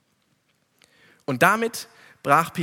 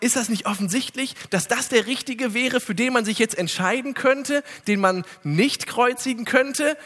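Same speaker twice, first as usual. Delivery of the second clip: Pilatus' Appell; 6 semitones higher than usual. Retold or imitated. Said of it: "Und er sagt".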